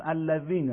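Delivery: "الذین" with a thin dh, tongue tip between the teeth; unthickened dh in "الذین"; plain dhal. Shown as a demonstration. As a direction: say "الذین" with no raising of the tongue root.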